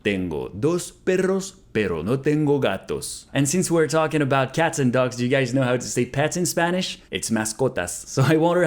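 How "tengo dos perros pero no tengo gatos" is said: slow, careful, clearly spaced words; slow model repeat. Shown as a demonstration. Teacher repeating Spanish for students, slow and careful. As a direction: say it slowly for learners to copy. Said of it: "slow repeat of model".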